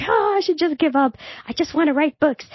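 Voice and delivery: high, hammed-up give-up moan; mock defeated whine. Entrepreneur mocks her roller-coaster urge to quit, high, hammed-up whine. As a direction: play it like a dramatic wish to quit. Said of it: "it's like".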